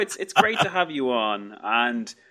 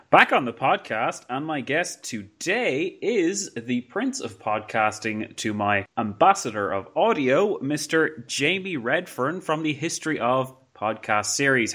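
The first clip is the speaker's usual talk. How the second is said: grand host introduction. Acted. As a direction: announce him like royalty. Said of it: "That was a brilliant introduction".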